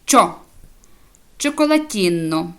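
«чо» alone, then «чоколатінно» with the same ch; «чоколатінно» carefully opened on cho; ch plus o. Shown as a demonstration. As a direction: model «чо», pause, then «чоколатінно». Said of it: "«чи» і «о»".

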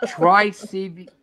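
high, slow, smug taunt; mocking reply. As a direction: imitate him teasing. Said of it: "He's laughing".

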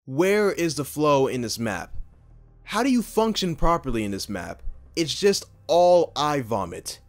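angry rant. Real, not acted. Ranting about the map.

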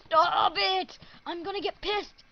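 real rage at the unresponsive mouse; furious shout. Real, not acted. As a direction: scream at the computer to stop. Yelling at broken mouse.

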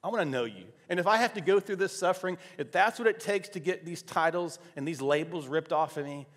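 retold heartfelt plea to God, pitch lifted; emotional prayer. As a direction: relive an earnest prayer, rising in the middle. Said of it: "I remember just getting emotional".

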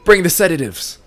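high, loud urgent calls; alarmed shouting. Acted. Staff shouting for sedatives as mother panics.

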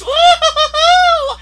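high, drawn-out whoop; whooping hoots at a high pitch; excited whoop. Real, not acted. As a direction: let out a loud, stretched woo-hoo. Excited whoop during game.

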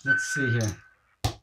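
distant, echoing mic; like talking from inside a tunnel. Real, not acted. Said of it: "It sounds like you're in a tunnel".

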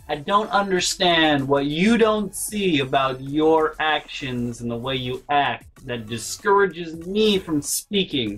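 slow, measured lecturing tone; imitating brother. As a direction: spell it out slowly like a patient brother. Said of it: "my brother will be like".

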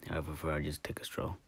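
unvoiced sneaky whisper. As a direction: tiptoe away, whispering. Sneaking off quietly.

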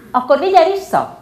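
high, loud shriek. Acted. Girl shrieking at her father to take the child back. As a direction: scream it at him.

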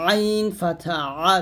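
আইন and আ pronounced with throat pressure; pressed ayn. Shown as a demonstration. Teacher showing students the throat letter, আ pressed. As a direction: say আ squeezed from the throat. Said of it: "চাপ দিয়ে".

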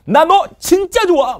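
high, loud, slow gushing; over-the-top confession. Retold or imitated. Teacher showing overacting, loud gushing confession. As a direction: ham up a love confession. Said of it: "막 이러는 거".

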